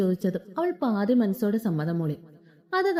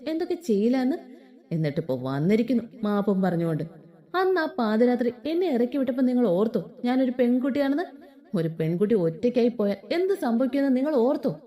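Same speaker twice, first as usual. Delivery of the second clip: understated fury. Acted. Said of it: "അവൾ അതീവ ദേഷ്യത്തോടെ പറഞ്ഞതും".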